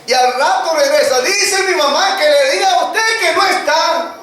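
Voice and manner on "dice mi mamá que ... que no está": put-on high innocent little girl; a child lying sweetly for mom. Child relays mother's lie.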